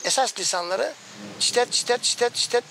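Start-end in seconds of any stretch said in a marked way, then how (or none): 1.4-2.6 lightly voiced chirps of a searching bird; imitating the bird's first song; goldfinch contact call. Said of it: "dediğimiz aramalarıdır".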